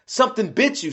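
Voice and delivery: high-pitched note of alarm. A narrator's reading. Elo discovers Hulk's bite, alarmed and high. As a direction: pitch it up in dismay.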